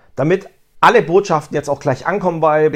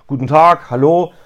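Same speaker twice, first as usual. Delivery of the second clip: customer greeting; 6 dB louder than usual. Shown as a demonstration. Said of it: "die Begrüßung wiederholen kann".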